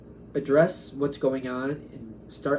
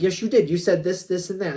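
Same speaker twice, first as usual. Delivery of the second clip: louder, pushy mock accusation; insistent accusation; 4 semitones higher, 4 dB louder than usual. Spirits insisting the querent said it, mock accusing and louder. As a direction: jab back like you caught them out.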